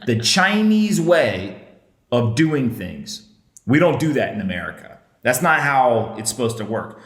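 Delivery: hammed-up lecture to little kids at home; mock kids' show host. Podcast host talking down to kids about free speech, mock kids' show voice. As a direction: preach like a kids' TV host, lightly. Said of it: "This is a kid's show".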